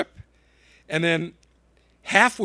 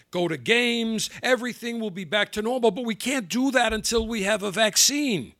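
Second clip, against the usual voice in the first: higher-pitched sing-song quote; mocking recital; 4 semitones higher than usual. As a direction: parrot a stock promise in a raised voice. Quoting Fauci's repeated promise in mock singsong.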